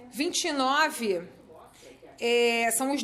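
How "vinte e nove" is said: "Vinte e nove" said very slowly, word by word; slow, deliberate repetition of the page number; slow repeat. Shown as a demonstration. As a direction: drag out "Vinte e nove" for the class. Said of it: "página vinte e nove".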